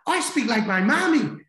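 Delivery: high, loud imitation of an Irish child; little girl's Irish accent. Granddaughter explaining herself to granddad, high Irish-accented child voice. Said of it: "like, with an Irish accent".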